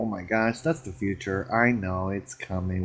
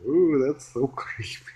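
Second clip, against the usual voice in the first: squeamish; 5 semitones higher, 5 dB louder than usual. Retold or imitated. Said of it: "You're like".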